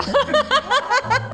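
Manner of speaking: bright high giggle; high laugh. Real, not acted. Laugh after joke.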